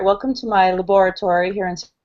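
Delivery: hoarse, croaky voice from a sore throat; frog voice. Real, not acted. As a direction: talk through a hoarse frog voice. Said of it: "I have the sexy frog voice as well".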